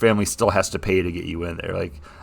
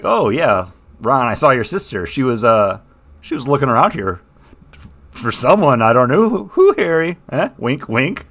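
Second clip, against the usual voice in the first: teasing Hagrid, lightly voiced; 3 semitones higher, 4 dB louder than usual. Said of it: "Hagrid kind of ribbing Harry".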